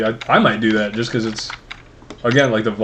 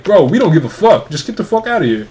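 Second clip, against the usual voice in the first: mock angry cops, louder and higher; imitating annoyed cops; 7 semitones higher, 5 dB louder than usual. Retelling how the cops brushed him off, in a mock angry voice. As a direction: bark it like fed-up cops, half-hammed. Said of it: "And they're like".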